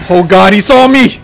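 spotted and panicking; alarmed. Real, not acted. Monster spots him.

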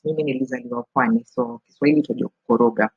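fast, lightly done Mombasa coastal Swahili; Mombasa Swahili accent. Shown as a demonstration. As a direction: rattle it off with a hint of a Mombasa accent. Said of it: "I can do both the Mombasa accent".

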